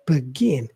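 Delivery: "begin" as be-GIN, weight on the last syllable; second-syllable stress. Shown as a demonstration. Teacher summing up the apostrophe example, "begin" stressed be-GIN. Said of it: "stress is in the second syllable".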